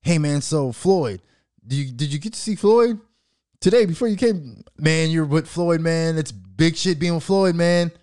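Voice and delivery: hammed-up interviewer gushing over Floyd; mock interviewer. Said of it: "they don't say none of that".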